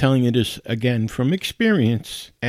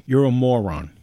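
a touch louder, blunt; lightly voiced exasperated wife; 3 dB louder than usual. Husband retelling what his nurse wife told him: blunt. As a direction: toss off the wife's insult. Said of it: "That's exactly what she said to me".

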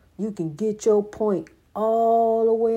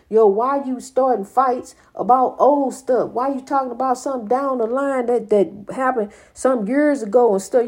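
rising, louder, faster exasperation building to a near-shout; exasperated scolding; 4 semitones higher, 3 dB louder than usual. Retold or imitated. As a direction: lay into him about dragging up old fights. Retold scolding of Brian.

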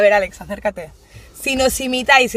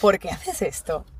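quoted question; 4 semitones lower, 7 dB quieter, slower than usual. Retold or imitated. Retold dinner question to brother.

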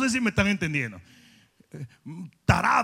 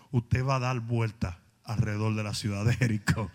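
much lower, deep booming angel; 13 semitones lower, 4 dB quieter than usual. Retold or imitated. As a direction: voice the angel of the Lord refusing. Angel giving the command.

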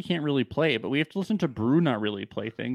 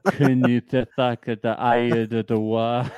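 backwards speech; 3 semitones lower, 3 dB louder than usual. Pretend. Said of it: "So let me say it backwards".

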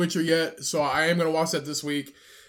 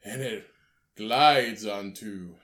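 slow, showy put-on chef; drawn-out theatrical chef talk; Salt Bae impression; 3 semitones lower than usual. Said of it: "that's how he talks".

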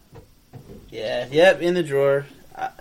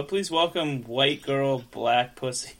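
emcee announcement; 3 dB quieter, slower than usual. Pretend. Mock emcee introduction.

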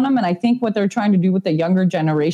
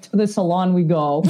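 laughing declaration. Retold or imitated. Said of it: "I'm like".

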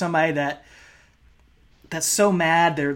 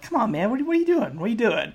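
higher, pleading and nervous, mock-begging; pleading Mysterio; 7 semitones higher, much faster than usual. Podcaster retelling Mysterio begging Batista to stop, imitating pleading voice. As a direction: plead with him like a scared friend. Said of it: "begging him to".

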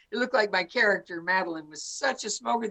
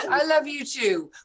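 laughing through real tears; choked up but laughing, on the edge of crying; teary laugh; 4 semitones higher than usual. Real, not acted. Old friend tears up saying goodbye to the host, laughing through it.

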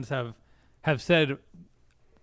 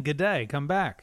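mock Australian. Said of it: "Australians greeting Philip".

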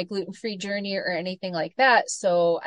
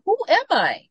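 mock panic; 8 semitones higher, 5 dB louder than usual. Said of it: "And you're like".

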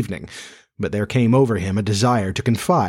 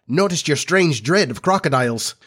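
higher, lilting sidekick voice; Smee, innocently curious; 6 semitones higher than usual. Acted. Smee remarks on his captain's dread, high and lilting. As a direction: pipe up with an innocent observation.

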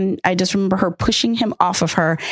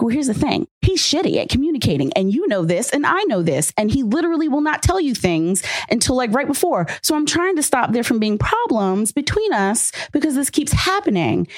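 exasperated explaining; 5 semitones higher than usual. Retold or imitated. Retold argument about ex.

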